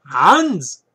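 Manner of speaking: loud, high-pitched mock German bark; Hitler. Book reviewer shouting an author's name, mock German dictator accent. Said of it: "That's my Hitler".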